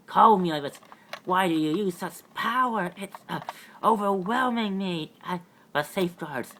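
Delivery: high, loud pleading under strain; desperate plea. Acted. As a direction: cry for help as power overwhelms you. Character under telepathic assault.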